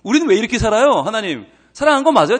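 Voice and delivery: ordinary delivery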